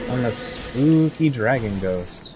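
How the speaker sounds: slow, drawn-out mock spooky voice; slow hammed-up ghost voice with stress on spooky; spooky dragon ghost. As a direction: stretch it like a campy haunting. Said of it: "Emphasis on spooky".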